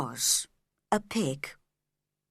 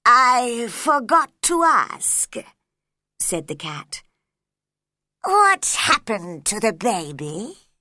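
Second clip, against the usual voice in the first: very slow, louder, teasing cat; slow loud sly cat telling secrets; Cheshire Cat voice; 2 semitones higher, 5 dB louder than usual. A narrator's reading. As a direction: stretch it out like a mischievous cat.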